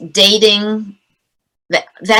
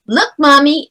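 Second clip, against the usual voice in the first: put-on high, carrying little-kid call; little kid megaphone voice; 7 semitones higher than usual. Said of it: "in that little megaphone voice".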